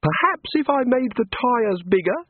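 hopeful words, hopeless voice; wistful and defeated, high god voice; quiet despair. A narrator's reading. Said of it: "hopefully, yet in a hopeless voice".

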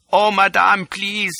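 high, begging little man; pleading cry. A narrator's reading. Little chap begging Lola, high and pleading. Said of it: "cries the little chap".

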